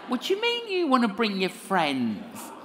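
what, your friends too?; incredulous. Retold or imitated. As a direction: ask it in astonished disbelief. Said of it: "I was like".

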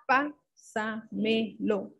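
"Pásamelo" stretched slowly, stress on PÁ; teacher drawing out "Pásamelo" slowly; slow syllable demo. Shown as a demonstration. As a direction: sound out "Pásamelo" slowly for the class.

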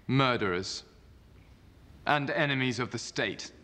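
formal senate oration; roman orator. Acted. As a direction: address the senators with gravity. Octavian addresses the senate.

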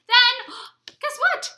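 gasp, then a slow, loud, high guess what; mock surprise gasp. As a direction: play up a big surprise for the babies. Teasing babies with surprise.

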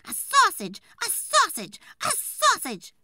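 high, loud, jeering repetition; mocking scold. Wife taunting the woodcutter over and over, loud high jeer. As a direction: hammer the word sausage at him.

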